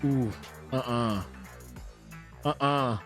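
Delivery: usual speaking voice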